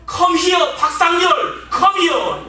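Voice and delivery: imitating a drunk father's loud English yell; drunken father yelling. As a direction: bellow for the boy like a drunk dad. Drunk father shouting for son.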